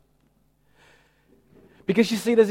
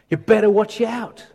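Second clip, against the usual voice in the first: louder, higher mock warning; raised-voice pulpit threat, put on; thundering preacher; 5 semitones higher, 5 dB louder than usual. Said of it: "heard a preacher thundering".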